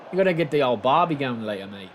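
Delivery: lightly put-on Aussie slang; Australian accent. Shown as a demonstration. Streamer asking chat to rate it, Australian accent. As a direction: try on an Australian mate voice. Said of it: "Rate my accent".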